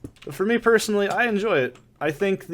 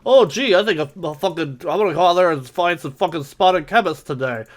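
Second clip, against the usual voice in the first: lightly hammed-up eager player; mock enthusiasm; 3 semitones higher, 4 dB louder than usual. Streamer mocks players who claim they'd go hunting, mock enthusiasm.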